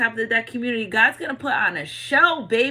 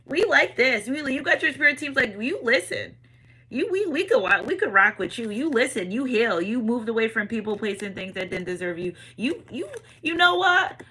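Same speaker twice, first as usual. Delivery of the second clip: voicing the divine; 3 semitones higher than usual. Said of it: "See the divine, they're like".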